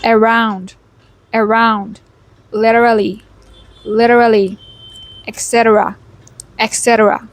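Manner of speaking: isolated words in an American accent; American pronunciation practice, word by word; American accent drill. Shown as a demonstration. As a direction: read each word out clearly in American style. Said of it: "let's go try reading out these words".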